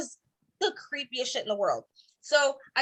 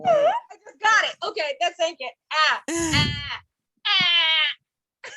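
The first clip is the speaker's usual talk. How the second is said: laughing; 4 dB louder, much slower than usual. Real, not acted. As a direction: laugh out the words in a burst. Comic laughing at the joke.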